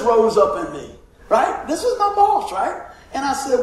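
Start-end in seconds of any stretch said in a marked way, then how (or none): 1.7-2.5 laughing. Real, not acted. Laughing disbelief at his own boldness.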